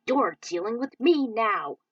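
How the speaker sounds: loud slow taunt; challenge. Acted. Falcon challenging the abomination, loud. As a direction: call the monster out. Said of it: "Falcon challenged".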